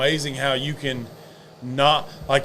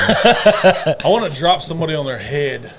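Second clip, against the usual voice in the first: laughing; 5 dB louder than usual. Real, not acted. Joking banter, laughing.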